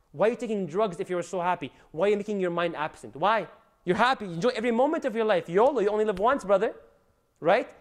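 loud, high-pitched preaching rebuke; rising preacher's outcry, scolding the listener. Acted. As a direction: shout the questions at the sinner. Preacher rebukes drug users.

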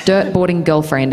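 put-on "dirt boarding girlfriend" in an American accent; American R's on the test phrase. Shown as a demonstration. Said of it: "test them with that phrase".

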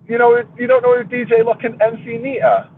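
real incredulous surprise; disbelief. Real, not acted. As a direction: sound amazed he doesn't know. Disbelief at friend's ignorance.

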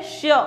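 "श्य" with a y sound trailing the sh; sh with y-glide. Shown as a demonstration. Teacher showing class how it is spoken, y-glided "श्य". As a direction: let a "य" follow the sh in "श्य". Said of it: "य की ध्वनि निकलती है इसमें पीछे".

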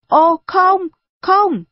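high, loud cry of refusal. A narrator's reading. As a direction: burst out in protest. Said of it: "Tôi kêu lên". (kêu lên to, giọng cao)

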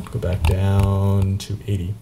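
slow, stretched "down"; drawn-out coaxing. Real, not acted. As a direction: drag out the word "down" in one long glide. Coaxing a setting, stretched repeat.

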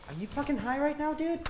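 angry shout. Acted. Crew member yells at stoned chef.

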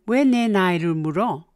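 왜 내 나이를 물어 said short and blunt, no polite 요 ending; 왜 내 나이를 물어 with a curt, blunt edge; blunt form. Shown as a demonstration. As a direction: drop the politeness, ask it bluntly. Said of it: "Blunt form".

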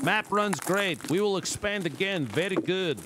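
slow, broken-English fake announcement; lightly voiced smug developer, slow and pleased; mock developer voice. Streamer parodying the game developers for chat, slow mock announcement.

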